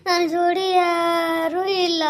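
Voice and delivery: low, slow, drawn-out ghost voice; a mild mournful ghost; lonely ghost. Acted. The ghost telling the woman it is alone, low and slow.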